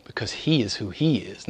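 breathy hushed whisper. Real, not acted. Preacher whispers a truth to the congregation. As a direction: drop to a whisper for emphasis.

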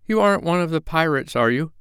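put-on high, timid young boy's voice; a small scared boy asks the stranger; little boy. A narrator's reading. Boy rescued from pirates asks the doctor, timidly.

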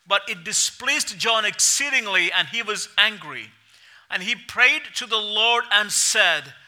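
measured, expressive Bible reading; scripture reading. Acted. Pastor reading Jonah to the congregation, steady and expressive. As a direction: read the passage aloud to the church.

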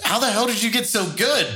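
retold astonishment, pitched well up; amazed question. Host asking the mouth-shooting archer about his skill, amazed.

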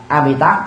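Amitabh said "a-mi-tab"; original Sanskrit pronunciation. Shown as a demonstration. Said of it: "ngữ âm gốc của tiếng Sanskrit". (Amitabh theo âm gốc tiếng Phạn)

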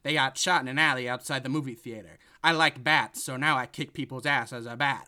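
deadpan tough-guy Batman read; Ice-T as Batman. Pretend. Podcast host pitching Ice-T as Batman, loud tough-guy voice. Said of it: "see Batman movie where Ice-T plays".

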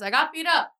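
high-pitched mock weepy voice; weepy caller. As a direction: imitate a whimpering man reporting himself hurt. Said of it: "is he weepy?".

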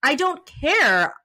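slow, insistent scolding of the cop; dramatized retort to an officer, mildly mad; retold anger. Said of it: "getting mad at the cop".

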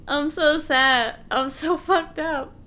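slow, hammed-up sad lament; mock misery. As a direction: imitate someone wallowing, drawn out. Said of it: "he's just like".

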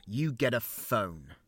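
slow grudging concession with a sigh; reluctant. Acted. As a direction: give in against your will.

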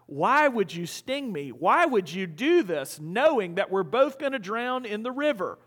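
lightly acted dying frog, stretching out the question. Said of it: "the dying frog asks the scorpion".

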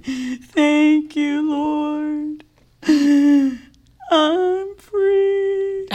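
high, tearful, quavering thanks; cry voice. Retold or imitated. Speaking faith over herself while still crying, high tearful voice. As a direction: force the thanks out through tears. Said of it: "you do that cry voice so well".

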